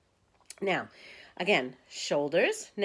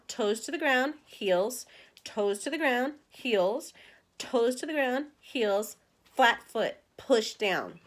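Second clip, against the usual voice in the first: coaching cue rhythm; 4 semitones higher, slower than usual. Shown as a demonstration. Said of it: "coaching foot movements".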